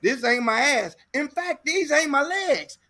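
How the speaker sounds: sassy mocking reveal; woman's retort. Woman revealing fake features, high and laughing. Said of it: "She said".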